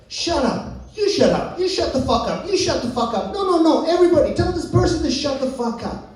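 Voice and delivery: high, insistent shut-up volley; mock online quarrel. Social media users telling each other off, mock-indignant. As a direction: act out a quarrel, pitch climbing as you rally everybody.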